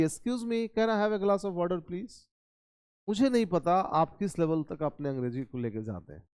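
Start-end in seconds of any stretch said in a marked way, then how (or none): 0.0-2.3 higher-pitched courteous English request, softening on please; polite request. Shown as a demonstration. Teacher demonstrating better English to ask for water, politely. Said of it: "और एक तीसरी quality".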